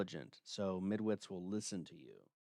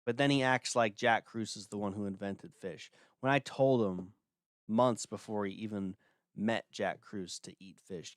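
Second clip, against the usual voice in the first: ordinary talk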